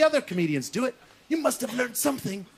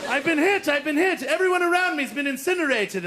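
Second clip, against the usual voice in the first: high, dramatic cry of being hit; hammed-up war-film distress; mock-stricken airman; 5 semitones higher than usual. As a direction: call out your injury, pitched up. Wounded airman crying out.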